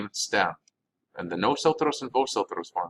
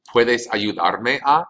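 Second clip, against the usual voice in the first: each word said slowly and clearly for learners; slow it down for the class; slow careful Spanish; 2 semitones higher, 3 dB louder, much slower than usual. Shown as a demonstration. Teacher models the phrase slowly for students. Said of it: "Can you help me to?".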